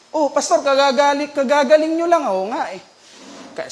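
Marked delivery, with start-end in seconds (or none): 0.1-2.3 higher-pitched retold surprise; mock surprised protest. Speaker reminds pastor he just recovered, retold in surprised protest.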